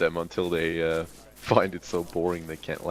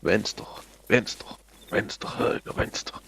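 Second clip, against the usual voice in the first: drill sergeant; 5 semitones higher, much slower than usual. Shown as a demonstration. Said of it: "I always over dramatize it".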